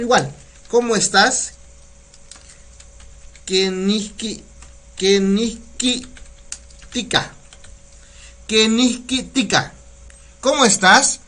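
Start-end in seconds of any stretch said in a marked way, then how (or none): 3.5-6.1 Kenihki said slowly, syllable by syllable; slow Nahuatl demo. Shown as a demonstration. Teacher sounding out Kenihki for online students. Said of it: "¿Cómo se dice cómo estás en náhuatl?". 8.5-9.7 Kenihki tika, slowly and clearly; teaching Nahuatl phrase. Shown as a demonstration. Teacher modelling the Nahuatl greeting for viewers. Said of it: "¿Cómo se dice cómo estás en náhuatl?".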